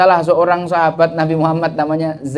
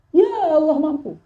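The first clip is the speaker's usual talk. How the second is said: higher, gentle smiling reply; smiling answer; 11 semitones higher than usual. Acted. The sheikh explains his smiling answer to his student, smiling. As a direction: say it with a smile. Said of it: "dengan tersenyum saya bilang".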